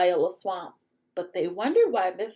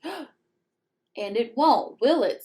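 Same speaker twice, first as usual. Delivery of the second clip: menacing; 2 semitones higher, much slower than usual. Acted. Witch threatening the class.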